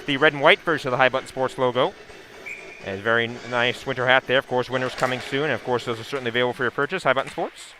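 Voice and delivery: brisk sponsor plug, rattled off quickly; quick ad read. Acted. Sponsor plug mid-broadcast.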